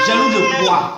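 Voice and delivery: very high, fake crying protest; mock whine. Denying he is jealous of his friend's English, a hammed-up crying whine. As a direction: whimper it like a wounded child, hammed-up. Denies being jealous, whining.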